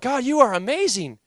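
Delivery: near-shouted amazed worship; ecstatic worship. Retold or imitated. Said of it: "I began to worship the Lord".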